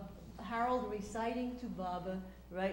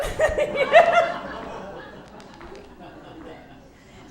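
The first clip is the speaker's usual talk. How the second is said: helpless laughter; 13 dB louder than usual. Real, not acted. Laughing at the punchline.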